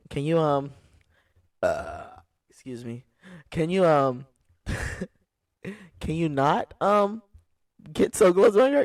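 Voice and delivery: pleading, slowing, then high and loud; a driver pleading with a woman creeping her car closer, rising to a loud plea; rising alarmed plea. Retold or imitated. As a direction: ask her to stop, voice climbing in alarm.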